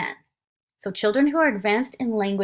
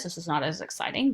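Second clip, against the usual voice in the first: flat low demo voice; low speech; 3 semitones lower, faster than usual. Shown as a demonstration. Teacher showing dull low speech to contrast with parentese. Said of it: "low speech like this".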